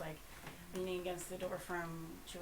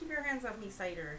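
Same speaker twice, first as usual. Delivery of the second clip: put-on Somerset accent; 2 semitones higher, 4 dB louder than usual. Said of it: "proper Somerset accent".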